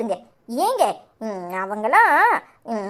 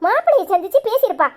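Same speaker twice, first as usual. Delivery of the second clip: exasperated cursing; 5 semitones higher than usual. Acted. Mother curses absent daughter.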